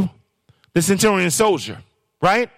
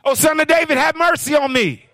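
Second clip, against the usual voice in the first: a mock holler, pitched higher; 6 semitones higher than usual. Blind Bartimaeus calling to Jesus, higher mock holler. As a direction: call out like a blind beggar crying for help. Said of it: "He started hollering".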